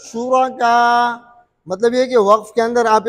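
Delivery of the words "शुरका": शुरका with the final आ cut short; short madd (qasr). Shown as a demonstration. Teacher showing the shortest length, short madd. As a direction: keep the last vowel of शुरका brief. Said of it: "और कसर".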